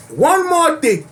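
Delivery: high booming uncle voice; big boisterous uncle bellow. Acted. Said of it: "in my uncle voice".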